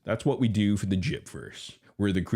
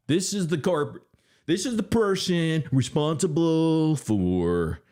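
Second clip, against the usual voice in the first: mock outrage; 9 semitones higher than usual. Hammed-up accusation over being blocked.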